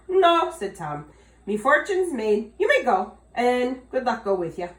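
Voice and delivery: high, loud jolly farewell; cheerful Tom. Acted. Tom happily dismissing the leprechaun, high and loud. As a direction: send him off gleefully.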